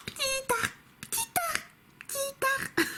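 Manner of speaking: tiny, very high squeaky voice; cute creature voice. Acted. Vlogger mimicking a cute Pokémon, squeaky creature voice. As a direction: squeak the name like a little creature.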